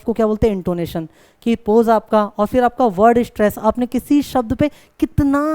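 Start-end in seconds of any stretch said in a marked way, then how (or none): 5.0-5.4 कितना stretched out long for emphasis; stress on कितना. Shown as a demonstration. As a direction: lean hard on कितना, drawing it out. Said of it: "जोर दिया है". (कितना पर खींचकर ज़ोर)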